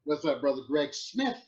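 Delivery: playful preacher greeting, stressing the final word; mock Baptist preacher style. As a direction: greet like a Baptist minister, leaning on the name's end. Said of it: "say your name Baptist style today".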